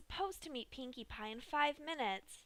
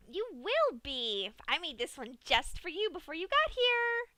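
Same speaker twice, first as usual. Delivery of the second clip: chirpy Pinkie; 6 semitones higher, 7 dB louder than usual. A narrator's reading. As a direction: tease with a secret. Pinkie answers Dash.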